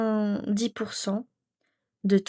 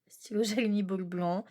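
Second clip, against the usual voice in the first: voiced again, laughing midway; amused repeat, full voice; 4 dB quieter than usual. Real, not acted. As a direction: repeat it aloud with a small laugh. Repeats pen name with a laugh.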